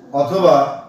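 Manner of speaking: slow, with a clear pause at each অথবা; slow reading. Shown as a demonstration. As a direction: model reading slowly with the joining words. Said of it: "অথবা বা বলতে হবে". (ধীরে ধীরে পড়া)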